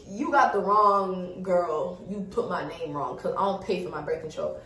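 ordinary talk

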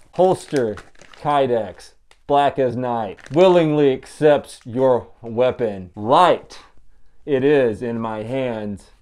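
slow dramatic slam poetry. Shown as a demonstration. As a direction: deliver it like a slam poet, slowly. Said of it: "How do you do slam poetry?".

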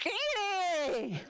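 high, excited cry of disbelief; surprised outburst. Retold or imitated. Kid realizing she's the princess, shocked and thrilled. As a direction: gasp it out in delighted shock. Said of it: "I was a real live Indian princess".

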